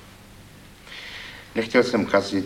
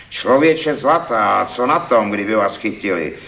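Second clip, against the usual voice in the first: shouting; 3 semitones higher, 6 dB louder than usual. Acted. Critic shouting encouragement at the poet-thief. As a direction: cry out to brush off his fear. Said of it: "křikl jsem".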